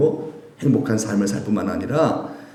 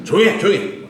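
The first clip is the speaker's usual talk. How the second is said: hushing rebuke; 6 semitones higher than usual. Retold or imitated. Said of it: "막 잠잠".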